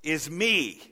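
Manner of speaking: high loud cry breaking down; anguished cry. Acted. Isaiah before the Lord, anguished cry. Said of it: "he said".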